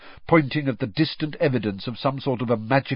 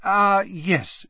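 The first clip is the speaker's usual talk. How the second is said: pleased, higher-pitched acknowledgement; grinning; 10 semitones higher, 4 dB louder than usual. A narrator's reading. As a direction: say it through a grin.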